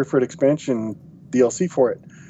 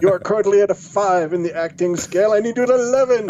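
rising higher, laughing demand; mock coach; 7 semitones higher than usual. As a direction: push it up to eleven, laughing. Mock coach pushing actor.

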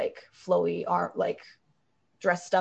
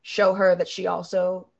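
reassuring. Acted. Azara consoling the elf, lightly voiced and tender.

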